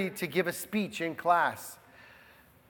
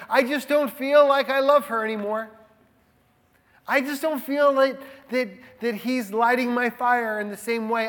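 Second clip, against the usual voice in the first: slightly put-on, higher-pitched complaint; lightly voiced spouse; 4 semitones higher than usual. Preacher voicing spouses who have broken up, mild higher-pitched lament. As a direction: lightly act out a disillusioned partner, pitched up.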